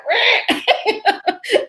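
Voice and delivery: high mock squawk; short high "rah" of a mind balking; imitated balking noise. Mimics conscious mind balking.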